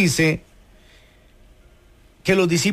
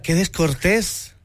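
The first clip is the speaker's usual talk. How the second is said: mild disapproval. Retold or imitated. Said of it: "Tal vez uno diría".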